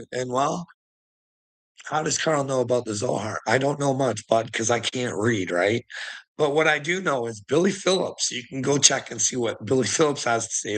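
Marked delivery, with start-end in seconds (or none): none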